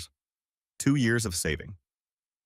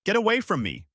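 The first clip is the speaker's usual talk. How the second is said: much higher, loud roar; furious yell; 13 semitones higher, 4 dB louder than usual. Acted. Father roaring at son and grandson pulling at him, furious. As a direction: drive them off in a rage. Father shoving them away.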